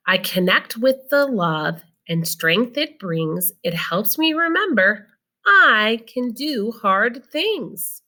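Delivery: slow, gentle read-aloud voice; reading to children. Acted. Teacher reading a picture book to her students, slow and gentle. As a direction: read it slowly for the class.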